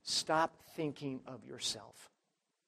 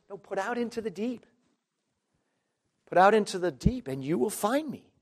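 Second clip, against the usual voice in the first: the Lord commanding; 6 semitones higher, 5 dB louder than usual. Acted. Preacher voicing the Lord's command.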